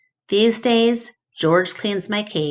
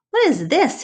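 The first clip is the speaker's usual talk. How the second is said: Mac's puzzled question; 10 semitones higher than usual. A narrator's reading. Mac asks about drawing.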